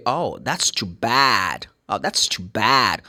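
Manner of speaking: bad with a flat American æ, slow; American too bad. Shown as a demonstration. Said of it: "This is American".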